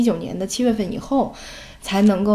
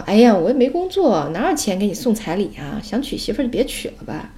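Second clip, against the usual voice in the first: teasing. Retold or imitated. Mother telling her son to forget marrying, teasing. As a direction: tease him with a pretend complaint. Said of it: "我就逗他".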